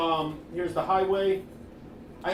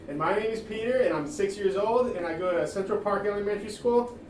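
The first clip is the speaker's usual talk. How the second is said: put-on kid presenting; 5 semitones higher, 4 dB louder than usual. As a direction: recite it like a nervous kid. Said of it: "Maybe you had, like, a presentation board".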